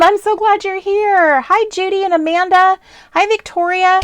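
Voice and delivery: high, loud welcomes to each chatter; light up for every name; excited greetings. Real, not acted. Greeting chat viewers by name.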